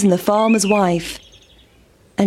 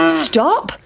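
cow shouting; 5 semitones higher than usual. A narrator's reading. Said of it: "shouted the cow".

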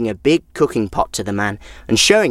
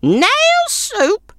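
put-on much higher old woman, scoffing; old woman mocking the idea of nail soup; scornful snort. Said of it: "snorted the old woman".

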